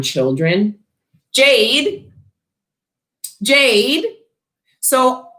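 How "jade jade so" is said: playful call. Real, not acted. Calling out viewer's name.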